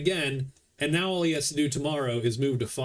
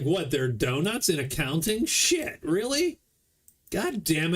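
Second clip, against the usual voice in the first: mock dismayed orc; 3 semitones higher than usual. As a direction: play the orc who missed the memo, outraged. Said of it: "He's like".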